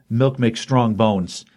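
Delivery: drawn-out, slow mocking line; slow, smug retold taunt; slow taunting quote. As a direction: stretch each word out to taunt him. Villain taunting after bottle smack.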